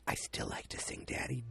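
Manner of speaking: soft secret whisper. Retold or imitated. Daughter secretly telling her father, whispered. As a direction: whisper it so Mom can't hear. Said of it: "And she whispers".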